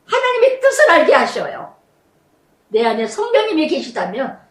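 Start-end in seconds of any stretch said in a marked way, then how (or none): 0.1-1.7 rising, emphatic sermon cadence; impassioned pulpit delivery; fervent preaching. Real, not acted. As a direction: drive each phrase home to the congregation. Preaching at full force.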